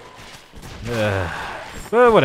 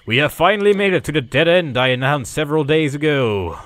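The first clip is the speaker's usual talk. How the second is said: loud, grand mock proclamation; mock announcement; 2 semitones higher, 5 dB louder than usual. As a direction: announce it loudly as if triumphant. Mock announcement of reaching the dead end.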